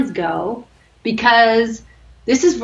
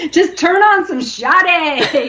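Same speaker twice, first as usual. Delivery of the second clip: normal talking voice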